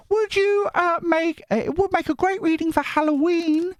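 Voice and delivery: high put-on voice reading a viewer comment; falsetto reading voice. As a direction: read the comment in a sweet high voice.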